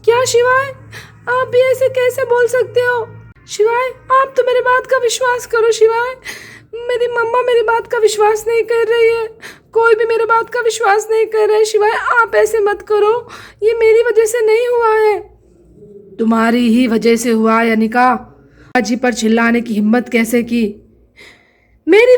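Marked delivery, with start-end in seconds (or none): 0.2-14.2 pleading through tears to be believed; a wife begging her husband through sobs; tearful plea. Acted. 16.2-20.6 much lower, heavy accusing man's voice; a deep-voiced husband laying the blame; stern husband. Husband figure blames wife.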